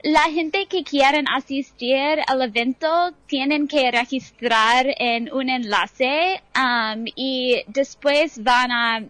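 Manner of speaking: Spanish with an American accent; American speaker talking careful Spanish. Real, not acted. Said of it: "mi español no es perfecto".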